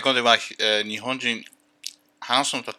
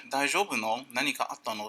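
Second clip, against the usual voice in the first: softer, kind asking; gentle concern; 6 dB quieter than usual. Retold or imitated. Boyfriend comforting his sad girlfriend, softly. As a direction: ask softly, caring. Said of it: "すごく優しいに".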